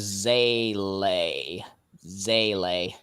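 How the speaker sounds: "Zele" drawn out slowly as ZAY-lay; careful pronunciation demo. Shown as a demonstration. Reporting the looked-up word to friends, "Zele" pronounced carefully. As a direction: say "Zele" slowly, both syllables clear. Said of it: "It is, in fact, pronounced as".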